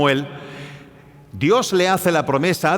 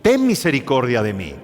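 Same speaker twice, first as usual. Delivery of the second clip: crying out; 5 semitones higher than usual. Retold or imitated. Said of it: "comenzó a gritar y a vociferar".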